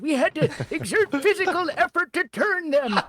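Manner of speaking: put-on old man voice. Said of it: "my generic old man voice".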